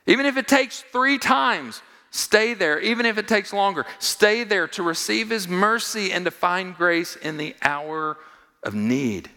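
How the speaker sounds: loud, high fervent preaching; building fervent sermon climax; preaching at full force. Acted. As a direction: drive it home to the congregation.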